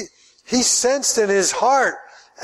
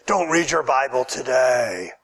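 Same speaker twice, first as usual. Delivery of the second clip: devil's temptation; 7 semitones lower than usual. Pretend.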